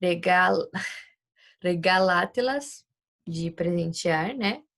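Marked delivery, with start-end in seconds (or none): 1.6-2.9 regalátelas, slowly, stressing the syllable lá; teacher pronouncing the example; example word. Shown as a demonstration. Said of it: "que a gente tem aqui".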